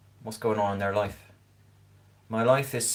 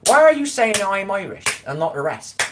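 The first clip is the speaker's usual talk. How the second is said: indignant inner voice; 9 semitones higher, 6 dB louder than usual. Retold or imitated. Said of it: "And I thought".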